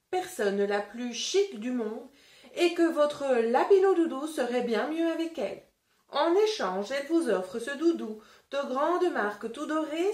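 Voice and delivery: put-on lively read-aloud for children; story reading. A narrator's reading. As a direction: tell it like a picture book to a class. Teacher reads the story aloud.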